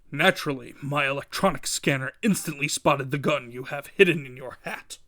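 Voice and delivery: lightly voiced crime boss, coolly superior; a hint of a smug villain, measured; Kingpin gloating. Kingpin gloats over hidden gun.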